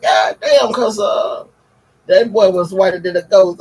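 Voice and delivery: loud, high stunned outburst; stunned exclamation. Retold or imitated. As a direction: blurt out the shock. Reacting to the white baby.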